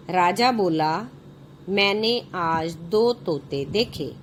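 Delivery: put-on slow, clear reading for children; story narration. A narrator's reading. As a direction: read each phrase out slowly to the class. Reads the story aloud. (बच्चों के लिए कहानी पढ़ना)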